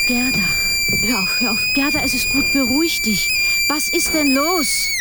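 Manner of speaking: calling out. Acted. Mother shouts over the screaming to calm Gerda. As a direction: shout over the racket to make her stop.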